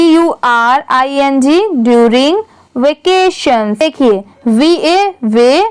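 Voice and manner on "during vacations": slow classroom reading. Shown as a demonstration. Reads English line aloud.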